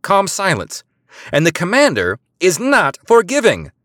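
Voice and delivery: high, loud outraged tirade; furious spy berating the sergeant; incredulous anger. A narrator's reading. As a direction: scold the sergeant in disbelief. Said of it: "incredulous anger".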